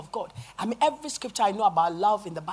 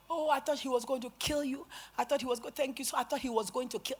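higher, softer retold voice; relieved woman; 4 semitones higher, 5 dB quieter than usual. Freed woman hugging the preacher, relieved.

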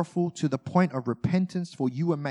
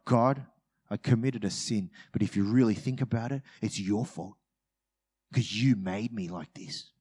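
lightly voiced smug blame; a hint of blaming God, smug; arrogant excuse; 4 semitones lower than usual. Believer praying to God, a hint of arrogance. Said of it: "So arrogant".

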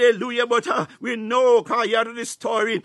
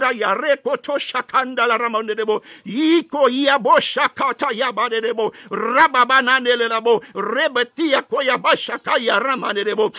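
fervent tongues. Acted. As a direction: pour it out in tongues. Intensified tongues.

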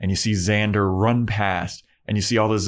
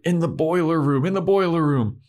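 blurting zombie; 8 semitones higher than usual. Retold or imitated.

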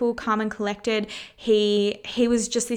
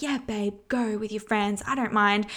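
fake casual; 3 dB quieter than usual. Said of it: "you're just like".

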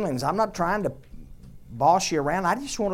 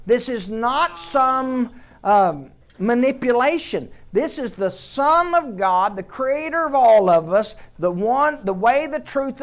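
1 building proclamation; 4 dB louder than usual. Real, not acted. Building proclamation about Jesus.

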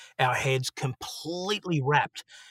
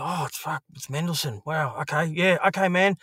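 a lightly voiced flustered yes, rising higher; startled awe; 4 semitones higher than usual. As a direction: caught off guard, hurry to agree. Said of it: "And I was like".

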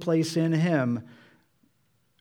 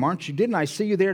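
higher, quick accusing question; acted confrontation; 7 semitones higher, 4 dB louder, faster than usual. Bystanders confronting Peter at the house, acted accusation. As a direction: confront him in a rush. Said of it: "now they're confronting him".

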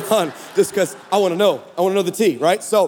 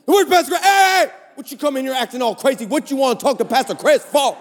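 much higher sassy snap, then fast; sassy assistant; 4 semitones higher than usual. Retold or imitated. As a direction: give her all the attitude. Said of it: "all the attitude".

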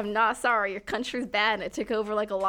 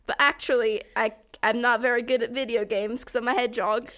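chatty put-on British YouTuber accent; Sonic, bad British accent. Explaining the joke as Sonic, in a bad British accent. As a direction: confide in badly faked British. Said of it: "worst goddamn British accent I have ever heard".

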